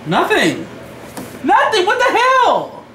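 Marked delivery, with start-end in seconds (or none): 1.4-2.8 high, giggling denial; laughing. Real, not acted. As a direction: laugh through the words.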